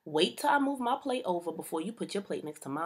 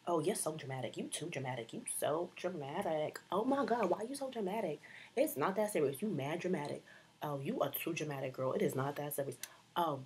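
mock critics. Mocking people calling her dramatic.

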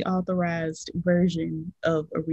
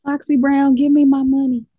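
loud, higher mock shout; mock demand; 7 semitones higher, 8 dB louder than usual. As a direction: holler a demand for the money. Mock demand to a rapper.

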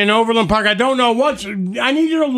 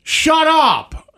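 mock scold; 6 semitones higher, much slower than usual. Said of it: "I wanna be like".

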